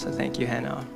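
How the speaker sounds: ordinary delivery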